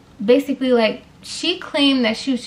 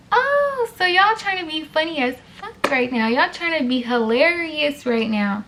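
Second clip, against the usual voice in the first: sarcastic mock; 4 semitones higher than usual. Telling Emma's group they think they're funny, sarcastic. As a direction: call out their joke with sneering irony. Mocking the girls' joke.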